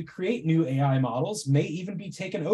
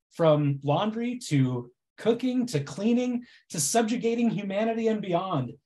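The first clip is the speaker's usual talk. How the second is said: dry mock reassurance; deadpan irony, tongue in cheek; sarcastic; 3 semitones higher than usual. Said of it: "my incredibly sarcastic presentation".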